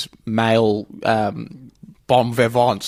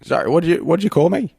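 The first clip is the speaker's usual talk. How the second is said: lightly put-on offended question; Michael Caine; 2 semitones higher, faster than usual. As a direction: ask it as if mildly affronted. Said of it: "He sounds so Michael Caine-ish".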